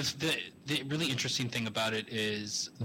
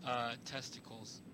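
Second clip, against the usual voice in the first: distant, hollow, echoing; like calling from inside a cave; 9 dB quieter than usual. Real, not acted. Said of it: "you sound like you're in a cave".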